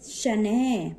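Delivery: शनह with a breath of "h" at the end; demonstrated pronunciation. Shown as a demonstration. Teacher reading the visarga sign, careful final h. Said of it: "इसको पढ़ेंगे हम".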